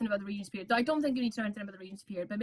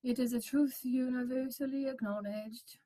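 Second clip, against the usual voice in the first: slow, softer, dry recital; dull, dry reading; 6 dB quieter than usual. Shown as a demonstration. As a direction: read it slowly, as if bored by it. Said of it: "You don't want someone to be like".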